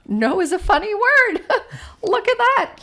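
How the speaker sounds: put-on playful teacher joking with a child, laughing; humorous. Shown as a demonstration. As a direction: make no sound hilarious. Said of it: "When you add humor to it".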